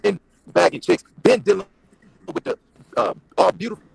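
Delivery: choppy breaking-up audio; bad connection. Real, not acted. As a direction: voice cutting in and out. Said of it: "You're breaking up".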